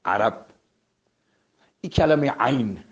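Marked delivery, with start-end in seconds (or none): 0.0-0.5 عرب with a throaty Arabic ain. Shown as a demonstration. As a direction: start عرب deep in the throat. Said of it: "مثل عرب".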